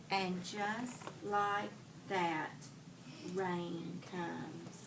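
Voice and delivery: slowing and fading to a hush at the end; story reading. A narrator's reading. Teacher reads climax of story.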